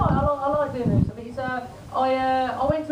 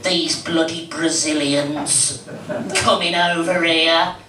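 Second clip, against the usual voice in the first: grumbling bigot; 7 semitones lower, much slower than usual. Retold or imitated. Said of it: "Are people saying".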